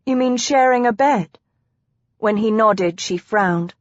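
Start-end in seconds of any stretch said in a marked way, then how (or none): 0.1-1.4 higher-pitched, surprised question; incredulous wife's voice; puzzled disbelief. Acted. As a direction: check his meaning, mildly baffled. Wife puzzled by his answer.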